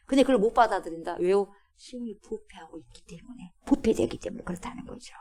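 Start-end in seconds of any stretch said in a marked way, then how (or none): 1.8-5.1 dropped to a hush. Real, not acted. Dropping voice for emphasis.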